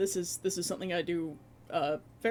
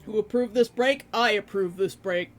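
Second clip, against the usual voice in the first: playful loud; 9 dB louder than usual. Real, not acted. Joking about a break.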